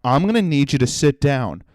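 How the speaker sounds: understated, measured request; calm staffer. Retold or imitated. Staffer to the fuming customer, mildly acted calm. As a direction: calmly settle an angry customer. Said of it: "He calmly walks up to me".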